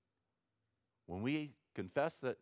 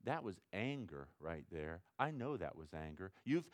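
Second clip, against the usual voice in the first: soft, low, humble confession to the Lord; quiet humble prayer; 4 semitones lower, 8 dB quieter than usual. Shown as a demonstration. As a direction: pray it softly, owning the sin. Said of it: "See, that's, that's confession".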